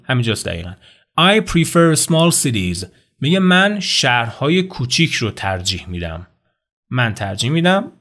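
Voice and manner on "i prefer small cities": "I prefer small cities" spoken very slowly, each word distinct; slow model sentence. Shown as a demonstration. Teacher modelling the target sentence for students. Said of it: "I prefer ... باش کار داریم".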